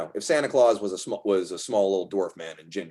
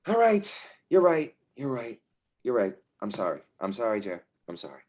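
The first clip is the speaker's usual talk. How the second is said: giving in apologetically; 3 semitones higher than usual. Acted. Rick acted calming down, apologizing.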